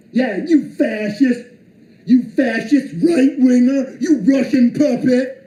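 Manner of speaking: slow sarcastic mock name-calling; mocking insults. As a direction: drag out the insults with scorn. Mimicking insults thrown at him.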